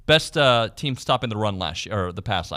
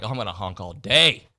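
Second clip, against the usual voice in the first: a hint of a cocky honker, a bit louder; cocky driver; 3 dB louder than usual. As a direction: lightly play a smug guy who keeps honking. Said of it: "there's others like".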